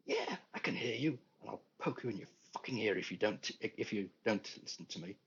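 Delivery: angry retort. Acted. Patient furiously answering doctor.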